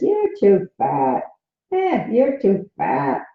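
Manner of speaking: slow, whiny put-down with a mock sob; whiny inner critic. Inner critic nagging the speaker, slow and whiny. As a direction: sneer it like a petty inner voice. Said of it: "Monkey mind says".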